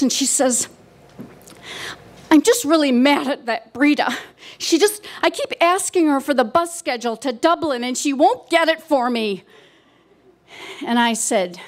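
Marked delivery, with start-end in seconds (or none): 2.3-9.4 nervous, annoyed. Retold or imitated. Mother in her chair complains about Breda, mildly nervous and cross. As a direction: lightly imitate a nervous, put-out mother. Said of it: "she's just really nervous".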